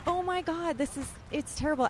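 high-pitched, hushed-panic mock wail; retold dismay. Reader recalling the priest praising the mumbler, high-pitched dismay. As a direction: pitch it way up, aghast.

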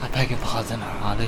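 understated affronted British villain; lightly voiced scary British guy; Black Mask. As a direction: take mild, restrained offence in a British accent. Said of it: "I'm supposed to be the scary British guy".

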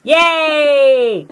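put-on high, loud childlike yay; gleeful cheer. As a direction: cheer with playful delight. Player's character cheers at new friend.

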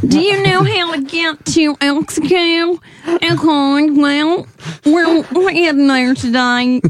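high, slow North Dakota drawn-out vowels; North Dakota accent. Shown as a demonstration. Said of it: "North Dakota, I feel like, is pretty".

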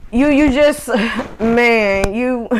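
stuttering, holding back real laughter; halting false starts with a suppressed laugh; trying not to laugh. Real, not acted. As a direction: stumble over the words, fighting a laugh. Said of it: "I'm stuttering and I'm trying not to laugh".

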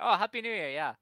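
high, loud mocking reply; mock Shayna. Friend mimics Shayna answering a host, high mock voice. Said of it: "Shayna's like".

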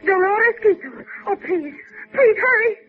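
tearful pleading. Acted. Desperate woman begging him to hurry.

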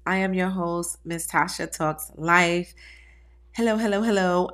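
blocked-nose voice; stuffy nose. Real, not acted. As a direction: speak through stuffy sinuses. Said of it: "I may sound a little bit stuffy".

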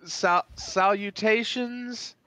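solemn will reading. Pretend. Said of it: "that is a different gig that I do".

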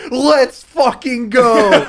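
high, loud, slow laughing cheer; hype cheer. Retold or imitated. Cheering the chimp launch, loud slow laughing cheer. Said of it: "I just say".

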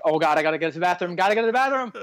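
fast, mock urgent bathroom panic; mock desperate. Host mimicking Mark's butt-clenched dance in mock panic. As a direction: hurry it like you need the toilet. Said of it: "the butt clenched dance".

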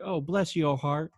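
slow, imitated Southern sympathy; attempted Southern accent. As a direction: try a sweet Southern stewardess. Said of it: "I can't do a good Southern accent".

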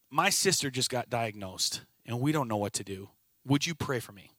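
softly confiding bad news; subdued plea. Coworker asking for prayer for her sick sister, subdued. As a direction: imitate a worried, hushed request for help.

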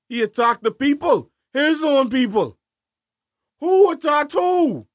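high, loud and slowing outrage; indignant. Real, not acted. Heated political argument with cohost.

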